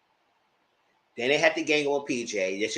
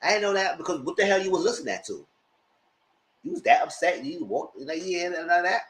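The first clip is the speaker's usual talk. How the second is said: squeaky, high imitation of Amanda; high mock disbelief; 5 semitones higher than usual. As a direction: play her shocked and high. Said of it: "She said".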